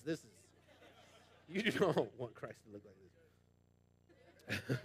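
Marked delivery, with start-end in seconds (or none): 1.5-4.8 slow, lower, laughing through it; mock-grim, laughing, much slower; laughing demo. Shown as a demonstration. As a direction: drag it out low while cracking up.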